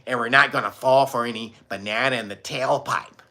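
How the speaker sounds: quoting a cop. Retold or imitated. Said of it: "He said".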